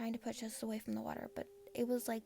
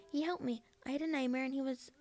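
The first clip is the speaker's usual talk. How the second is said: defensive protest; 3 semitones higher, 3 dB louder than usual. Acted. Girl defending Deku to Bakugo.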